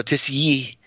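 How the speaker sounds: "Tessier" as tiss-YEE, run together; France pronunciation. Retold or imitated. Patron shows how France says it, "Tessier" as tiss-YEE. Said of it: "if you go to France".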